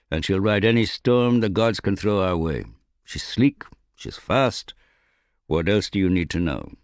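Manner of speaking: a lightly voiced gruff captain, boastful; proud old captain. A narrator's reading. Captain boasting to the young bowman about his ship, lightly gruff.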